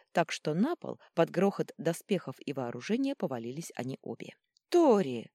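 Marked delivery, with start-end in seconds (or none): 4.7-5.3 high loud call; exclaiming. A narrator's reading. Vita calling to the fallen Tori in alarm. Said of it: "воскликнула Вита".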